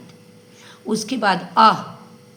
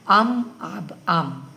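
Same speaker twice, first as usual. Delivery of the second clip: slow recitation; much slower than usual. Shown as a demonstration. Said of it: "और एक बार हम पढ़ा देते हैं".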